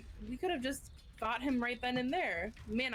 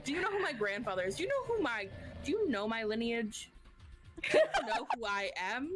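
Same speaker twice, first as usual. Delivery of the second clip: put-on drunken posh sneer. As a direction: sneer like a spoiled heir.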